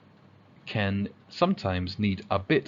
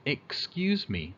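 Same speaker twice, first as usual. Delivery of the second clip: polite request; 3 semitones higher, 3 dB quieter, slower than usual. Shown as a demonstration.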